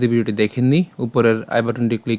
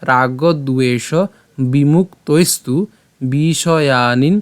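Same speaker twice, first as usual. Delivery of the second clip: slow recitation of line; slower than usual. Shown as a demonstration. Teacher repeating the first line slowly for students. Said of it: "আমি যদি আবার প্রথম লাইনটা বলি".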